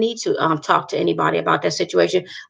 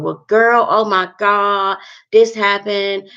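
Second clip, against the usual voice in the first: mock dramatic venting; 2 semitones higher, 3 dB louder, slower than usual. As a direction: imitate a friend spilling drama, drawn out. Mimics friend launching into gossip.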